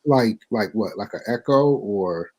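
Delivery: distorted, staticky mic sound; like a bad crackling line; fuzz distortion. Real, not acted. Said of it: "You sound a little distorted to me".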